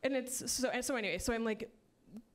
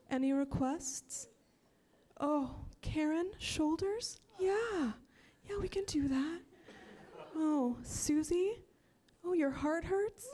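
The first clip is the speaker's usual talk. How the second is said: airy, higher, slow yoga-teacher voice; 6 semitones higher, slower than usual. Retold or imitated. Yoga teacher greeting class in an airy, higher voice. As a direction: float it like a dreamy instructor.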